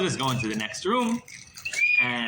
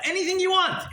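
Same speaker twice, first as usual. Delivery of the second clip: high, louder, selling the offer; eager promise; 4 dB louder than usual. Acted. Assistant promising Tadris any blessing, high and louder. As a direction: promise it all with a grin.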